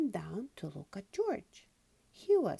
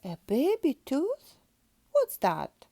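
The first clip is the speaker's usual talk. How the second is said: put-on high, loud child's question; a little girl pig amazed by the news; curious little Peppa; 9 semitones higher, 10 dB louder than usual. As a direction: ask it wide-eyed as a small girl. Peppa voiced in story.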